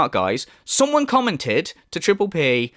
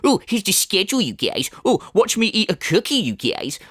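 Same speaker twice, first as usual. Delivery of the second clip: mocking boring streamer. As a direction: imitate a tedious streamer showing off.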